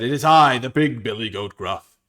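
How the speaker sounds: loud, proud goat declaration; big billy goat. Acted. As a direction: announce yourself boldly as the big goat. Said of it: "the goat said".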